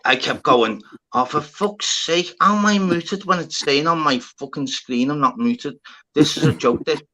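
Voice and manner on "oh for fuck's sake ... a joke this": exasperated rant. Retold or imitated. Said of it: "So I'm arguing myself".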